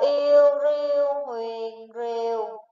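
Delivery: "yêu riu huyền rìu" slowly spelled, each step apart, falling tone on "rìu"; slow spelling drill. Shown as a demonstration. Teacher leading pupils to spell along, slow drill. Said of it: "Các em hãy đánh vần tiếng rìu".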